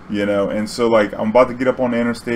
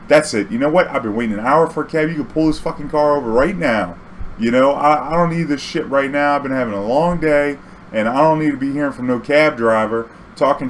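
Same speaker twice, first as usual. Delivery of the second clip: retold angry rant; 3 semitones higher than usual. Angry passenger demands to stop.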